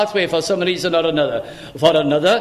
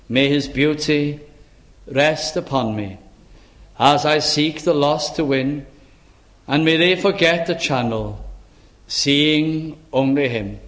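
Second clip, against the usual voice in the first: recited prayer; 4 semitones lower than usual. Acted. Recites hymn verse.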